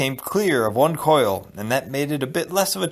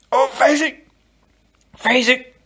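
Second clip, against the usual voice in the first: anguished cry; 12 semitones higher, 4 dB louder than usual. Acted. Inigo's desperate farewell.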